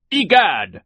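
high, loud outburst; alarmed exclamation. A narrator's reading. Mister Poe sees the villain escaping, crying out in alarm. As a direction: blurt it out in shock.

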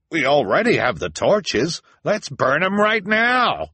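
high, loud, mob-stirring shout; elder's cry. A narrator's reading. Elder urges the crowd to burn them, eager cry. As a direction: rouse the mob, drawing out the ending. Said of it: "an elder cried".

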